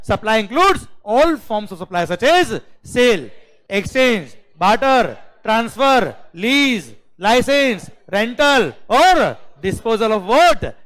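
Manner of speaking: high, loud, slow list chant; demonstrated recitation. Shown as a demonstration. Teacher showing students how to study, loud drilled recitation. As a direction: drum each item in separately, punching it hard. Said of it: "वो ऐसे पढ़ना है बेटा आपको".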